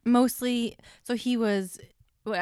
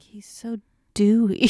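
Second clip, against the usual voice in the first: admiring; 6 dB louder, slower than usual. Retold or imitated. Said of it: "I also just kept being like".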